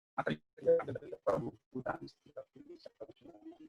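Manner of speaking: choppy, breaking-up audio; bad connection. Real, not acted. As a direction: voice cutting in and out. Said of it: "suaranya putus-putus".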